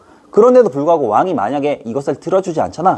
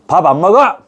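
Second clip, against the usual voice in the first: louder mock sulky refusal; sulking king; 5 semitones higher, 5 dB louder than usual. King refusing his meal to pressure ministers. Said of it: "이렇게 얘기한단 말이야".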